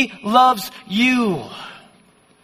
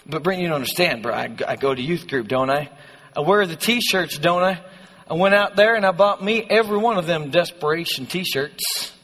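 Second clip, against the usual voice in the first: lightly hammed-up Southern country accent; put-on country accent; 3 semitones lower than usual. Preacher voicing a protesting youth group kid, put-on Southern accent. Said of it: "I don't know why you have that accent".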